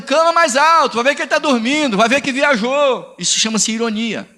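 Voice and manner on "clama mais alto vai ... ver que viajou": Elias zombando. Retold or imitated. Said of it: "Ele tá dizendo".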